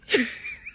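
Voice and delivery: short high laugh; real laugh remembering the scene. Real, not acted. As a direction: burst into a quick laugh. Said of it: "So I started laughing".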